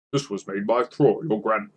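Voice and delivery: slips into a dwarf voice by mistake; Thorin-like voice. Acted. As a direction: sound like Thorin, not the wizard. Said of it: "that's more of, like, a Thorin".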